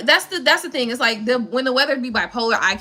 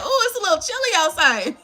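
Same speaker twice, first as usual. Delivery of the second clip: mock shivering Floridian; 5 semitones higher than usual. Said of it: "I be like".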